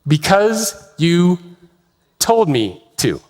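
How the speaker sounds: slow, dropping sheepish reply; sheepish answer. Retold or imitated. Navigator answering the captain, slow sheepish. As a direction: mumble it like a caught subordinate. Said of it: "the answer that he gave".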